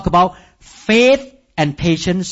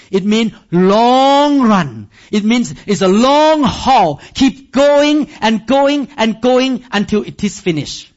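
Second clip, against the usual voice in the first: emphatic preaching; 4 semitones higher, slower than usual. Real, not acted. Preacher drives home endurance.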